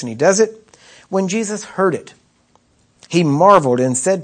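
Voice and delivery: brisk, forward Bible reading; scripture reading. A narrator's reading. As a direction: read the passage aloud briskly and firmly. Reads scripture aloud.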